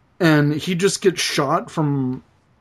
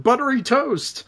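buttery toast quote; 8 semitones higher than usual. Retold or imitated. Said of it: "can't say buttery like that".

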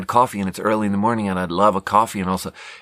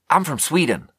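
awkward blurt; 6 semitones higher than usual. Retold or imitated. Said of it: "Why do you say it like that?".

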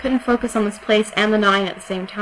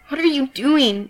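pleading question, pitched higher; a trapped girl's frightened plea; desperate; 6 semitones higher than usual. Acted. Captive Yan pleads with Skidder, desperately. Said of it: "a note of desperation in her voice".

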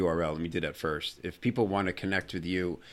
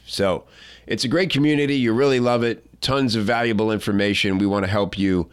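louder, upbeat sponsor read with a sales push; 5 dB louder than usual. Acted. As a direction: pitch the membership to listeners like a radio ad. Host reads sponsor ad.

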